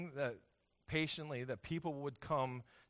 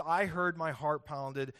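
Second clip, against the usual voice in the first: louder, urgent and frightened; scared retelling; 5 dB louder, slower than usual. Shown as a demonstration. Preacher voicing Habakkuk's fear to the congregation, louder and urgent. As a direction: push it out like terrible news just hit. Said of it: "I am scared to death".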